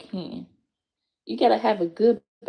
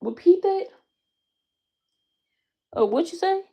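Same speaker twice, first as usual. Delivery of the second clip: mock threatening challenge; 10 semitones higher than usual. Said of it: "I'm like".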